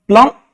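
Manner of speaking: प्लम्बर in two parts, "plum... er", no B; silent B, broken up. Shown as a demonstration. Teacher repeats it for students, silent B in प्लम्बर. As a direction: split प्लम्बर as "plum", pause, "er". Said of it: "क्या बोलेंगे?".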